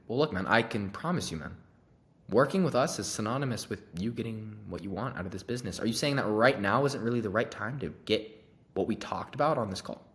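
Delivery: steady, reassuring sales voice; calm, caring close. Shown as a demonstration. Salesman calmly reassures a hesitant prospect, caring tone. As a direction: reassure the prospect without pushing. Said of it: "Just say it like that".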